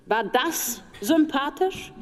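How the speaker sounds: ordinary delivery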